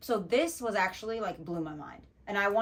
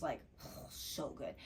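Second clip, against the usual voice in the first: dreamy sigh; 5 semitones lower, 11 dB quieter, slower than usual. Real, not acted. Savoring the remembered sandwich.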